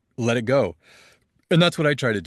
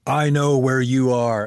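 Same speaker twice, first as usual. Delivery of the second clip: loud, slow, raised-pitch mock shout; all-caps shout; 4 semitones higher, 6 dB louder, slower than usual. Retelling a friend's reply to his posted picture, mock all-caps shout. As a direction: boom it out slowly, like a message in capitals. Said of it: "in all caps".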